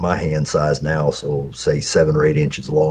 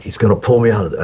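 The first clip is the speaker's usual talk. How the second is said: put-on panicked child; 6 semitones higher, 4 dB louder, faster than usual. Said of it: "but I was like".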